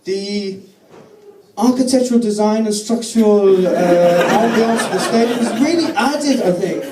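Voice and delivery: imitated Frenchman slipping into a German accent; put-on French accent gone German; earnest European visitor, accent sliding towards German; accent drifting to German. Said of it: "I don't know why he's gone German".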